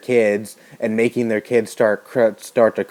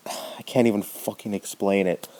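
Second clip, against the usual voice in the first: sigh, then whisper it, much softer; exasperated whisper; 2 semitones lower, 7 dB quieter than usual. Real, not acted. Exasperated at parents' cruelty.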